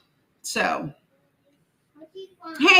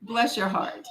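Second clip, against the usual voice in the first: softer sweet pity; Southern bless your heart; 3 semitones lower, 6 dB quieter than usual. Shown as a demonstration. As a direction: coo it with mock pity. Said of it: "That's what it does".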